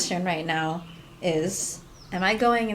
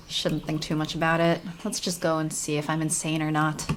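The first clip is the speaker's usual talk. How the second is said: earnest young heroine, lightly voiced; 3 semitones lower, 4 dB quieter than usual. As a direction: read it as the game's heroine. Reads heroine's lines in game.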